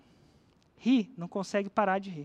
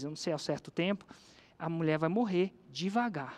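lower, hushed scheming voice; sly doctor; 5 semitones lower, 4 dB quieter than usual. Retold or imitated. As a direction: lean in and plot it quietly. Doctor voiced smugly, slow plan.

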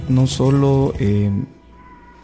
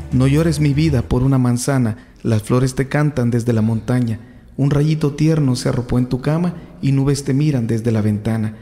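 poem reading. Acted. Reads a children's poem aloud.

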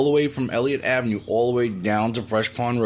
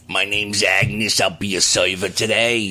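put-on old waitress Agnes; 5 semitones lower than usual. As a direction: drag it out like a tired old waitress. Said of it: "She'd be like".

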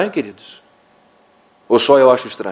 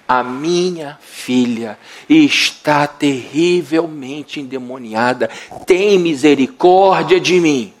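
slow, drawn-out pleading mother; a mother begging for her daughter; desperate plea; much slower than usual. Acted. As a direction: beg him slowly, from the gut.

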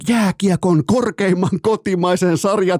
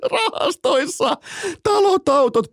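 laughing; 13 semitones higher, slower than usual. Real, not acted. Laughing at the player's fortune.

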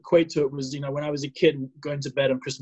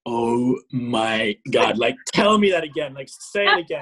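awestruck; 2 semitones lower than usual. Retold or imitated. Man reacting to his new name, awestruck. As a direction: stretch it out, then plead eagerly.

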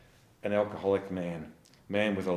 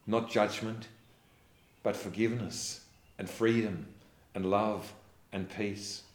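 closing prayer. Acted. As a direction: pray gently over the congregation.

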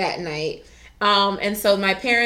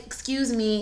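soft, sugary excuse me, quieter; sweet polite ask; 5 dB quieter than usual. Retold or imitated. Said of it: "I'm trying to be real sweet".

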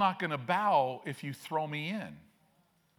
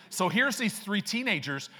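excited; 5 semitones higher than usual. Acted. Preacher relaunches the story of the teens, excited. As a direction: pick the story back up with fresh energy.

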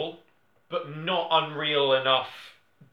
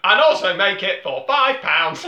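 louder, higher, laughing through the order; laughing mock order; 4 semitones higher, 8 dB louder than usual. Podcaster mocks Netflix executives, laughing. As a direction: dictate the recipe while giggling.

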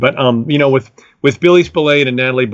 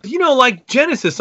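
a higher friend voice trying again; imitating his friend Dan; 12 semitones higher than usual. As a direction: try once more, patiently. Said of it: "He goes".

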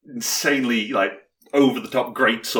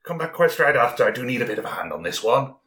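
a light character voice, pitch dropping line by line; Kelris character voice; 3 semitones higher, faster than usual. Acted. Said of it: "Calris goes".

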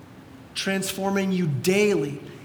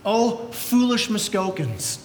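reproving; slower than usual. Acted. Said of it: "Paul would look at you and he would say this".

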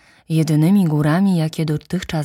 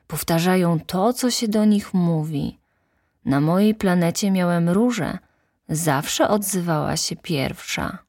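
little prince; 2 semitones higher than usual. Acted. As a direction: muse like a disappointed small boy.

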